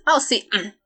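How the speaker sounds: attempted Midwestern accent; lightly put-on Midwestern driver. Driver recommending a suburb, attempted Midwestern accent. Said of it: "to do this accent".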